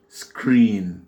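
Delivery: "screen" with a long, drawn-out ee; slow demo of English "screen". Shown as a demonstration. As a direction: stretch the vowel in "screen" slowly. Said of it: "c'est un I long".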